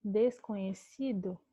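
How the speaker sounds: desconhecido said slowly, syllable by syllable; teacher's slow model word. Shown as a demonstration. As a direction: stretch out desconhecido for the class.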